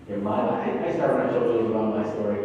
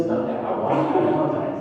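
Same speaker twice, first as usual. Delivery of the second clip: put-on much higher, insistent child; insistent little boy. Young son insisting to his dad, much higher child voice. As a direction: plead like a small boy who won't budge.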